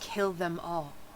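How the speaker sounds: low, hushed, secretive half-whisper. She leans over to deliver the note's message, half-whispering. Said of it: "she whispers".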